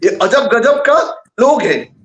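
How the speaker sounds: slow down and lean on लोग. Retold or imitated. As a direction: drag out "ये अजब गजब का लोग है", landing hard on लोग. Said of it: "ये कहते हैं". (धीमे, ज़ोर देकर दोहराना)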